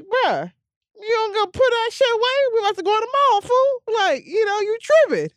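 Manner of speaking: mock-scold him for flashing the gun. Host retelling how she told off her bodyguard, high and incredulous.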